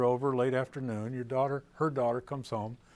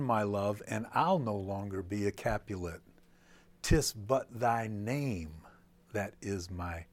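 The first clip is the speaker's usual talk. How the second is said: reading Shakespeare. Shown as a demonstration. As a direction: read the verse thoughtfully. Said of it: "which reads from Juliet".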